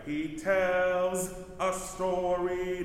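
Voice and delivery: "He tells a story" slow, the S of "tells" cut off crisp; sharp. Shown as a demonstration. Director showing the choir a crisp sharp cutoff. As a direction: clip the end of "tells" nice and sharp. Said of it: "Nice and sharp there".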